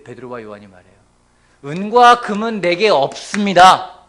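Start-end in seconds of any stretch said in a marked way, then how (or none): 1.6-4.0 slow, loud and grand proclamation; drawn out like a commanding apostle; solemn apostle. Acted. Peter telling the beggar, slow, weighty and loud.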